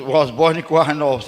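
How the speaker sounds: "Was born in Currais Novos" said in Brazilian-accented English, stress on born; English version. Shown as a demonstration. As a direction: switch to English so it rhymes. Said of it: "é inglês, cara".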